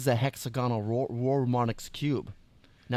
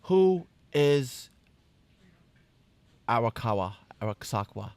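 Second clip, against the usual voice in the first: put-on Brooklyn accent; slower than usual. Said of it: "a gangster Brooklyn accent now".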